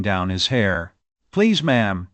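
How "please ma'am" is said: Martha voice. Acted. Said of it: "said Martha".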